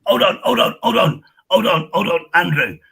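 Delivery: stopping Andrew in a heated live stream, loud; loud interruption. Real, not acted. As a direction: cut him off firmly and loudly. Cutting in on Andrew in argument.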